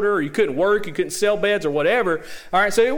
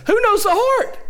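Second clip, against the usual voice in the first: high, loud preaching cry; emphatic rhetorical question; 14 semitones higher, 5 dB louder than usual. Real, not acted. Preacher presses the congregation on Jesus' divinity, emphatic. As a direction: throw the question out to the congregation, pitch soaring. Preacher drives the point home.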